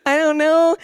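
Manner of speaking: high, drawn-out pretend blubbering; mock crying. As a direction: imitate a tearful wail, stretching the words. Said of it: "they start crying".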